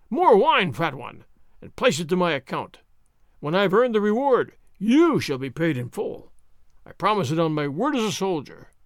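loud howling boast. Acted. Sergeant bellowing at the landlord and room, loud. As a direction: roar it out, full of drink and bravado. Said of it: "Gonzales howled".

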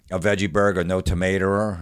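"tomatoer" with a hard R tacked on the end. Acted. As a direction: end "tomatoer" on an r sound instead of o. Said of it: "we still put the R's on everything".

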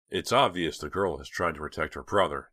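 plain reading voice

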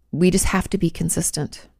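ordinary talk

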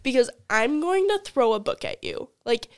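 loud, laughing mock outrage; half-laughing indignant rant; retold outrage. Retold angry reply to Colin.

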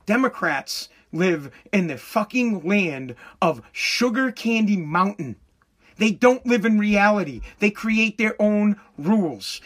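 low, slow, deliberate explanation; slow and pointed, word by word; real slow. Shown as a demonstration. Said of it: "I'll say it again real slow".

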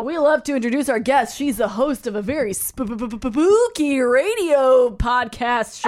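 spooky radio host. Pretend. Host introduces guest in bit.

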